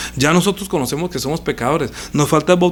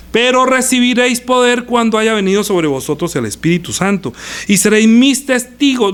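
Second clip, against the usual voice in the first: raised, higher preaching voice; emphatic proclamation; 6 semitones higher than usual. Acted. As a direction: proclaim the promise with force. Preacher proclaims the promised power. (proclamación enfática)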